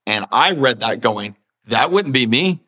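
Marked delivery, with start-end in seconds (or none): 1.7-2.6 mock indignant disbelief. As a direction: act out a slave balking at the very idea. Acts refusing slave reacting to Joseph.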